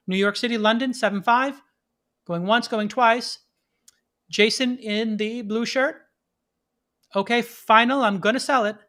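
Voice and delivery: a founder playing auctioneer to investors. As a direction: rattle off bids like an auctioneer. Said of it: "No, they say".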